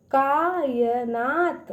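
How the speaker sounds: slow, syllable by syllable; sounding out syllables. Shown as a demonstration. Teacher sounds out a word for kids, slowly. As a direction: break the word into its parts for children. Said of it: "उसको तोड़ तोड़ पढ़िए".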